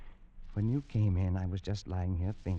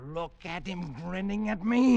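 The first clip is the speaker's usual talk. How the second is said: horrified; 8 semitones higher, 6 dB louder than usual. Acted. Pollock sees the grinning face.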